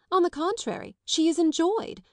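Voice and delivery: high, relishing the gossip; gleeful. A narrator's reading. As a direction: savour it with glee.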